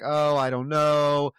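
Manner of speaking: mock noncommittal hedging, drawn out at first; tiptoeing evasion. Boss dodging employee's promotion question, mock tiptoeing evasion. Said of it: "tiptoey around".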